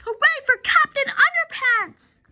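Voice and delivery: high, loud triumphant cheer; cheering hooray. Acted. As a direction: cheer for the hero. Cheering the hero.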